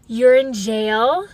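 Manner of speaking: slow, dragged-out fake concern; mock friend on the phone. Friend on the phone, slow mock concern. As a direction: play a friend who barely cares. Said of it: "Anybody I called would just be like".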